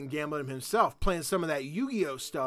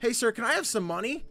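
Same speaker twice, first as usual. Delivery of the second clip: laughing through line; 8 semitones higher, 3 dB louder than usual. Real, not acted. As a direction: giggle while asking. Voicing kid while laughing.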